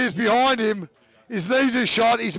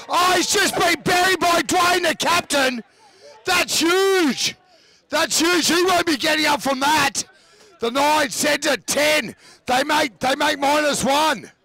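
excited, higher rugby call; live play-by-play; 3 semitones higher than usual. Acted. Commentator calling the Tigers' attack for listeners, excited play-by-play. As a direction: ride the action as it unfolds.

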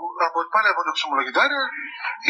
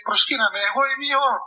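mock grand, higher-pitched proclamation; imperious proclamation; 4 semitones higher than usual. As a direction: imitate someone declaring himself God. Man demands worship as God. (πομπώδης διακήρυξη, μιμητικά)

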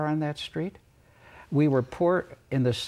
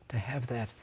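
choked up; 8 dB quieter than usual. Real, not acted. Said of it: "See, now I'm getting emotional".

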